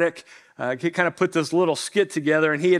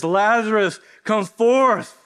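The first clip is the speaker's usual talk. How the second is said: mock calling out; 3 semitones higher, slower than usual. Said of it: "my dad says".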